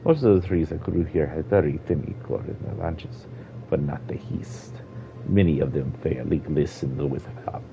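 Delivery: old Argonian voiced with a Jamaican lilt; light Jamaican accent for the elder. Old Argonian explaining the lost forest to a child, Jamaican accent. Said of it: "giving him a Jamaican accent".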